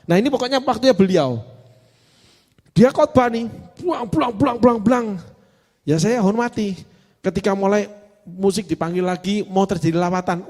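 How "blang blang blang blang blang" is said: high rapid mock blangs; imitated preaching noise. Preacher mimics woman colleague preaching, imitated barrage. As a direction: mimic a sermon as higher-pitched bursts.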